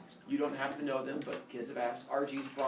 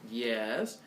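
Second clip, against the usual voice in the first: lightly lowered, wary reply; Father Sky answering; 6 semitones lower than usual. Acted. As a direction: answer low, lightly in character. Father Sky answers Mother Earth.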